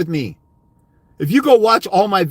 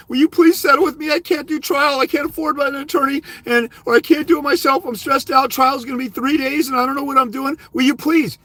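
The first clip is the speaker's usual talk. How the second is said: high pleading mock voice of a scared dad; mock a dad begging the mom to settle, pitched up; whiny begging dad; 6 semitones higher than usual. Lawyer mocking a timid dad begging his ex, high and whiny.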